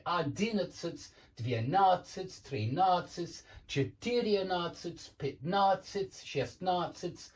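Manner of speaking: numbers read slowly, stress on надцать; stress drill. Shown as a demonstration. Teacher reading numbers slowly, stressing на. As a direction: sound out each стресс on на, slowly. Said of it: "I've put the stress, it moves here".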